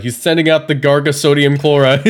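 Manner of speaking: lightly hyped commentator announcing a send-out; mock commentator. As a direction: pretend VGC commentator call. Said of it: "if I get to commentate".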